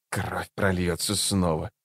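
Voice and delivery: slow, low menacing whisper. A narrator's reading. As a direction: breathe the threat quietly and slowly. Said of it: "прошептал убийца". (зловещий медленный шёпот)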